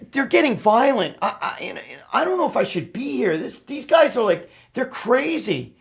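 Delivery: alarmed woman. Retold or imitated. Worried woman telling him the guys are getting violent, high and anxious. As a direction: sound nervous and uneasy. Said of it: "And she was like".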